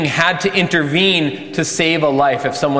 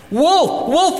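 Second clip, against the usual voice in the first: mock cry of alarm. Boy repeating his prank on the villagers, mock crying out. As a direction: sound a false alarm high in the voice. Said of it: "he cries".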